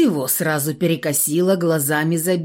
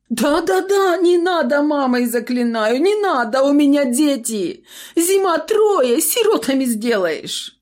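terrified wailing; 9 semitones higher, 4 dB louder than usual. A narrator's reading. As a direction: wail for mercy. Shopkeeper begging for mercy.

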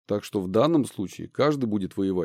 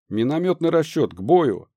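command shout; 4 semitones higher, 4 dB louder than usual. Acted. Commander orders mortar crew.

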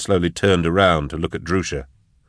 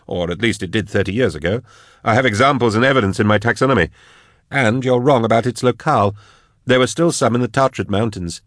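lightly voiced scholar, insistent and higher; higher-pitched, mildly defensive expert; 5 semitones higher than usual. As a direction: argue the point, a touch indignant. Narrator voices Drusha correcting Eisenhorn.

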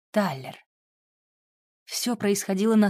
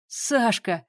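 disbelieving surprise; 3 semitones higher than usual. A narrator's reading. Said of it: "не поверил он своим ушам".

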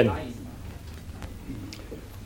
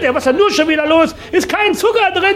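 shouted punchline; 14 semitones higher than usual. Acted.

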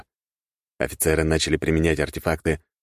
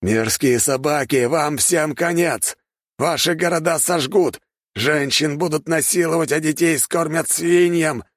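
a cruel noble cursing the rebels; 11 semitones higher than usual. A narrator's reading. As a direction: drag out each threat to terrify. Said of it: "ругался он".

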